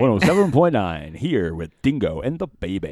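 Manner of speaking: light mock radio host; a hint of a radio announcer. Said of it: "Can somebody say it in a radio voice?".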